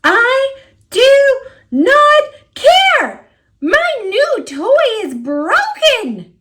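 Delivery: high wailing refusal; tearful refusal. Acted. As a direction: cry it out, refusing comfort. Refusing apology, crying.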